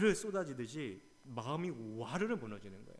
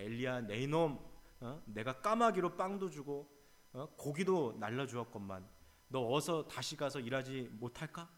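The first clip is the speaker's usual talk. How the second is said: harsh boss scolding. Pretend. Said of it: "악독 고용주라면".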